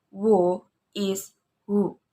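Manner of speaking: Who is who as a question; rising question on who. Shown as a demonstration. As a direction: ask Who is who with a rising tune. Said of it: "rising tone".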